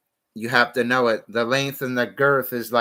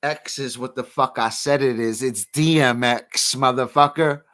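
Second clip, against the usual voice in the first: a rapper's voice; 3 dB louder than usual. Retold or imitated. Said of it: "Now I'm the white D M X".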